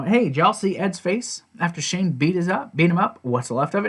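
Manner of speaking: high-pitched accusing retort, settling by the end; going off on someone. Retold or imitated. Jim going off on Shane, mildly heated. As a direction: imitate someone laying into a rival. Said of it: "he goes off on Shane".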